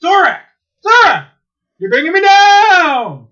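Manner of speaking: high, loud drawn-out cartoon complaint; Space Ghost whining. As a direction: wail it like a sulking superhero. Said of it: "he goes".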